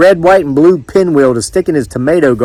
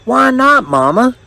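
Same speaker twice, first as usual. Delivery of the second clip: put-on high-pitched young man's voice; protesting son; 11 semitones higher than usual. A narrator's reading. Young man challenging his mama, high protesting voice. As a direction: question mama in a raised pitch.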